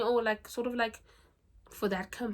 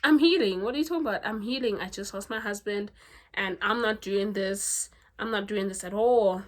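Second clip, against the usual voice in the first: mock heroine protest; 4 dB louder than usual. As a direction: play her bristling and refusing, lightly. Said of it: "she's like".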